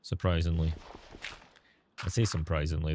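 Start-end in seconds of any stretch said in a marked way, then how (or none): 0.0-0.7 dry, low-pitched sarcasm; understated sarcastic aside. Real, not acted. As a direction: say it low and deadpan, meaning the opposite. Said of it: "that's sarcasm".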